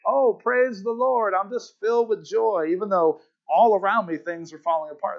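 mock cheery, high and bright on top of a collapse; sing-song fake joy; fake plastic smile. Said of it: "putting on a fake plastic smile".

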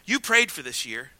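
hushed, as God whispering; a quiet murmur in the ear; soft whisper-like. Retold or imitated. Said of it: "he whispered in my ear".

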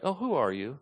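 soft, innocent, honest question; genuinely curious. Shown as a demonstration. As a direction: ask as if you truly want to know. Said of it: "don't think they were saying it like".

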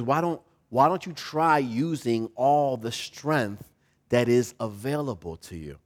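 lightly voiced patient father; comforting father. Father advising his struggling son, gently coaxing. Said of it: "to comfort him".

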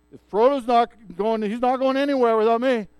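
loud, eager outburst; Sam insisting. Retold or imitated. Sam jumping from the bushes to insist on going, loud and eager. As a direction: burst in, refusing to be left behind.

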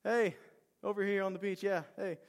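calling out. Retold or imitated. Man on the beach to fishermen in a boat, calling out. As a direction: yell over to them, acting it out. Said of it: "And he yells at him".

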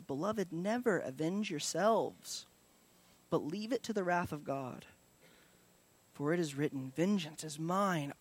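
gentle scripture recitation; scripture reading. Acted. Reads Romans 12 scripture.

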